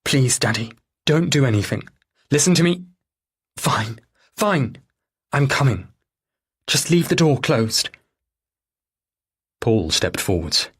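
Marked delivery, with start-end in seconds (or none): 0.0-7.9 pleading daughter on phone. Acted. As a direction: plead with Daddy to stay put.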